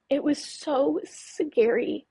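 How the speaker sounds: real fear, faltering into a drawn-out finish; shaky with fear. Real, not acted. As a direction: catch on the words, still scared. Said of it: "if my voice gets shaky".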